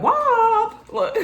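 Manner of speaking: high shouted wop; loud call. Acted. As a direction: call it out to the room. Calling out to dudes.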